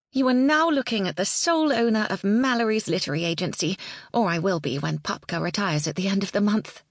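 Janey, proud. Acted. Janey voiced by narrator.

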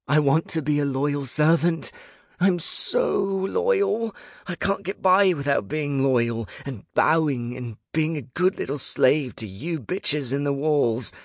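high, loud, gushing devotion; over-the-top servile pleading; manic grovelling. A narrator's reading. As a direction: grovel wildly, stretching the high notes. Grovelling manically to bedroom gods.

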